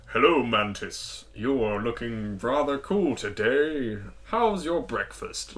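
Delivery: slow, put-on posh voice; slow, courtly put-on voice; Groot's inner voice. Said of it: "you suddenly hear what Mantis is hearing".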